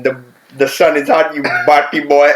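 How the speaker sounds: Jamaican accent. Shown as a demonstration. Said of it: "Give me that in your best Jamaican accent".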